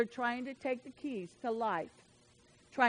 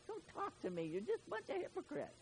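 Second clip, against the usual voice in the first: hushed scorn; 7 semitones higher, 11 dB quieter, faster than usual. Acted. Jesus quote drops to hush.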